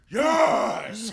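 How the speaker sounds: gleeful cry; laughing triumphant yes. Retold or imitated. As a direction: shout yes through laughter.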